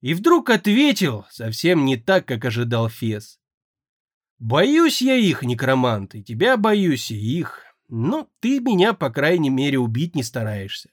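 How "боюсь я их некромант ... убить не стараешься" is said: a frightened mage half-sobbing that he fears them all; fearful, tearful confession. Acted. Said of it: "совсем по-детски всхлипнул".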